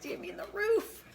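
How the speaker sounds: high, slow drawn-out correction; mock correcting. Correcting Jimmy's roof, high and slow. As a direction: sing out the correction teasingly. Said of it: "I'm like".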